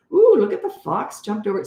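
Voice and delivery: high ooh of put-on interest; mock wonder. Parent luring toddler with favorite book, playful wonder.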